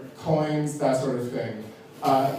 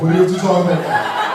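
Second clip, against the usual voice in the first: mock straight guy, louder; 4 dB louder, faster than usual. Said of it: "straight guys are always like".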